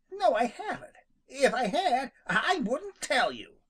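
very high, with a laugh, defiant; defiant declaration. Acted. Rabbit refusing Jimmy the nest, high and defiant. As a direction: refuse him gleefully. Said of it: "declared Peter".

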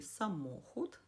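«самохід» stressed on the middle «мо». Shown as a demonstration. Teacher shows viewers where «самохід» is stressed, on «мо». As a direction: lean on «мо» in «самохід». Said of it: "наголос падає на склад «мо»".

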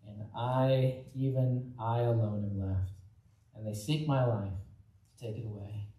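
reading the Bible passage aloud, measured; scripture reading. Acted. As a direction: read the verses steady, like from the pulpit. Reads the verses from First Kings.

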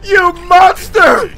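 drawn-out cry of mock outrage; mock outraged cry. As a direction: cry it out slowly at the villain. Mock outrage at game opponent.

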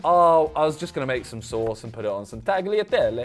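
English lead-in, hammed Italian tagliatelle; mock Italian flourish on tagliatelle; teasing impression with Italian-accented tagliatelle; imitated Italian accent. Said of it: "That's how you do it".

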